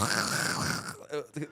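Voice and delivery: mock throaty rasping sound; throaty noise. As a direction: imitate a noise scraped from the throat. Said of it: "It all comes from the throat".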